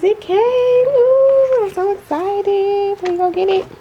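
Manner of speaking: high, excited squeal over the package; thrilled squeal. Real, not acted. Unboxing her order for viewers, high excited squeal. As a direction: squeal like the parcel finally came.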